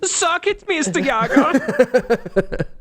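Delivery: high, slow, hammed-up German accent; mock German accent. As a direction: drag out Mister Yager in a silly German voice. Mock German voice taunting friend.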